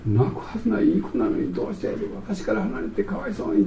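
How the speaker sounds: soft, fretful mother voice, lightly done; worried mother. Retold or imitated. Preacher voicing a mother fretting over her child, softly worried. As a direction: murmur like an anxious mom. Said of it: "心配で心配でたまらない".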